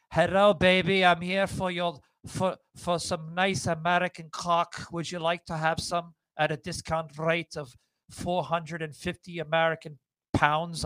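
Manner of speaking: put-on half-hearted Eastern European accent; badly faked foreign accent. Man retelling an escort's phone pitch, badly faked foreign accent. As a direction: imitate a foreign caller's accent, roughly. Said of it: "I can't do a Sylvanian accent".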